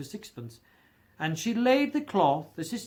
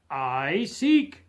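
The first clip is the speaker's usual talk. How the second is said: louder indignant "I seek!"; indignant exclamation; 2 semitones lower, 5 dB louder than usual. A narrator's reading. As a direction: spirit exclaims, stung. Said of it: "exclaimed the spirit".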